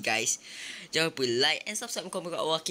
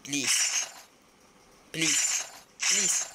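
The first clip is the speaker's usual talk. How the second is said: begging; 3 semitones higher, much slower than usual. Real, not acted. Gamer begging the game for a magnifying glass, rising plea. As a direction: beg the game, rising each time.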